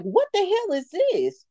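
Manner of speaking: high, slow disbelief; high, drawn-out what-the-hell; incredulous. Retold or imitated. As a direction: stretch it out in shock. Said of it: "I'm like".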